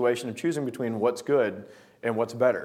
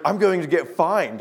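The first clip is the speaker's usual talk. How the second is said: raised-pitch, mildly panicked retelling; imitated panicking; 4 semitones higher than usual. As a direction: act out a friend's mild panic. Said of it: "like, panicking".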